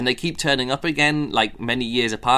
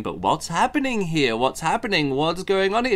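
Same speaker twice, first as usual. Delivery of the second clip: higher, puzzled repeated questions; mock confused character; 5 semitones higher than usual. Reviewer mocking a character stuck on what's happening, higher. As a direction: act out a bewildered hero. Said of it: "somebody going".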